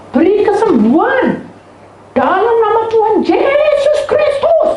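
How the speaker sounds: very high, loud drawn-out cry; child shouting prayer. Retold or imitated. Child prays for mother's healing, shouting. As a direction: mimic a child yelling a prayer slowly. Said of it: "teriak-teriak gitu".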